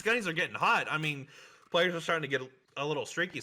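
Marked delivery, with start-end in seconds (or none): 1.7-3.4 talking through hiccups; hiccuping between words. Real, not acted. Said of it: "I'm hiccuping a little bit".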